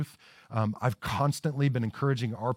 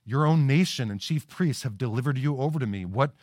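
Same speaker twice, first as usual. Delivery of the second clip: cynical and hard. Acted. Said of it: "the cynicism and hardness in his voice".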